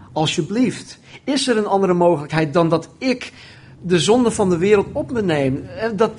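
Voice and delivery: acted, insistent plea rising in pitch; pleading prayer. Jesus begging his Father for another way, pleading prayer. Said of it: "Even daarvoor bad hij".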